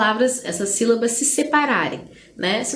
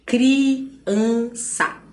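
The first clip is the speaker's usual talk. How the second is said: CRIANÇA in three beats, cri, an, ça; split into syllables. Shown as a demonstration. Teacher giving three-syllable examples, criança split up. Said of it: "Três vezes eu abro a boca".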